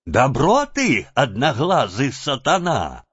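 выкрикнуть медленно, с упрёком; крикнуть на голову с обидой; гневный вскрик. Acted. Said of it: "вскричала она". (свояченица вскрикивает на голову)

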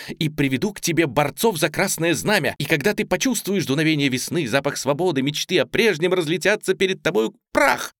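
ordinary delivery, nothing marked

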